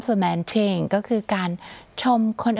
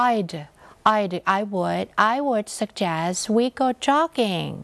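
slow model sentence; much slower than usual. Shown as a demonstration. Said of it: "teacher models example sentence".

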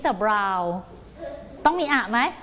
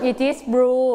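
slow answer; 4 dB louder, much slower than usual. Shown as a demonstration. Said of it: "เก่งมาก".

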